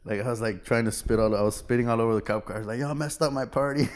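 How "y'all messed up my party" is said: laughing through a mock drunk complaint; laughing quote. Drunk teen to the cops, laughing mock complaint. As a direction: giggle as you whine at the cops.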